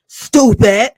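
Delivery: a loud, scornful "Stupid" with a changed voice; loud scoffing stupid. Acted. Vlogger mocking Destiny for missing the hello, loud scornful jeer.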